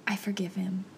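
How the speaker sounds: near-whispered, breath-only forgiveness; hushed realization. Retold or imitated. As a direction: whisper it as it first dawns on you. Quiet dawning realization, then said aloud.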